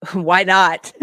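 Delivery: loud, incredulous question breaking into laughter; real laugh on the question. Real, not acted. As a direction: burst out laughing as you ask. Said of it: "I'm sorry to laugh".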